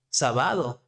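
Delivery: Sábado misstressed as sa-BA-do; wrong middle-syllable stress. Shown as a demonstration. Teacher repeats the mistake for learners, Sábado stressed as sa-BA-do. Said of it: "It's not sábado".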